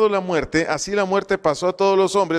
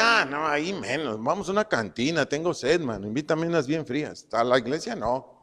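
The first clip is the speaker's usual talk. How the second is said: lightly voiced buddy brushing it off, softer; acted dismissive refusal; 5 dB quieter than usual. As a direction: wave the invitation away casually. Acted friend refusing church. (negativa actuada, desganada y en voz más baja)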